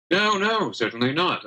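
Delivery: high eager protest; eager innkeeper. Acted. Innkeeper Alistair voiced by GM.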